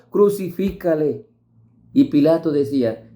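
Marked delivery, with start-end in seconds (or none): 0.1-1.3 a raised, higher call from the crowd; crying out. Acted. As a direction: lift it up like voices demanding. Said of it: "daban voces diciendo".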